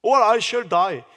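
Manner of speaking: very slow, each word laid out; slow English reading. Shown as a demonstration. Preacher reading Rachel's plea in English, slow and deliberate. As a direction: read the verse out slowly and clearly. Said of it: "영어로는 뭐예요?".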